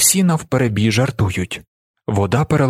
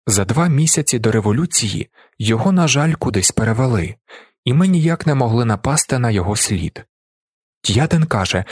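ordinary delivery, nothing marked

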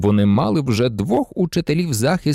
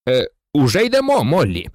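lightly raised answer to a wife; a mild call back, not shouted. A narrator's reading. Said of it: "гукнув містер Візлі". (стримано гукаючи у відповідь)

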